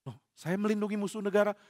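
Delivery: stunned priest repeating the accusation; stunned echo. Acted. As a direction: echo the charge in disbelief. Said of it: "Ahimelek kaget".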